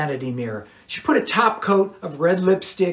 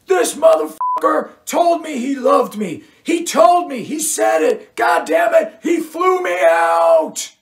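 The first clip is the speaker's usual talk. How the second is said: high screaming rage; scorned woman screaming at her ex in a bar; furious shout; 12 semitones higher, 4 dB louder than usual. A narrator's reading. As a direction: shriek it at him across the table. Cheryl rants to security.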